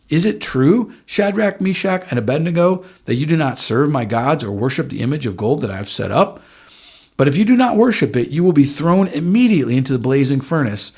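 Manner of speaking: a preacher hamming up a raging king; furious king. Acted. Preacher voicing furious king Nebuchadnezzar, mildly hammed-up anger. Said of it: "Furious, enraged".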